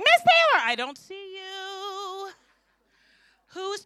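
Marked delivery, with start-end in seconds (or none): 0.0-2.3 kindergartener hiding. Retold or imitated. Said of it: "they're like".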